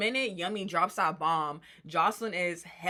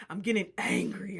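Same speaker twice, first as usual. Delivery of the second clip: imitated angry growing voice; bass in voice. Housemate turning up in an argument, mock-angry bass. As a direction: put some bass in it, mimicking anger. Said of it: "she got bass in her voice".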